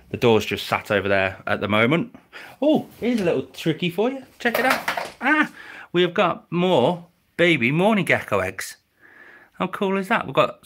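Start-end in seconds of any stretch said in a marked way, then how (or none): 2.6-10.2 higher, delighted reveal; excited. Real, not acted. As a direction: show off the eggs with glee. Showing off new gecko eggs.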